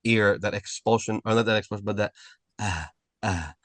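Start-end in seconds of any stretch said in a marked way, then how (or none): 2.6-3.5 soft breathy "ah" sighs, lower; little sigh. Shown as a demonstration. Teacher showing the sigh to avoid, soft breathy ah. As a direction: demonstrate the trailing sigh softly. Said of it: "that little sigh at the end".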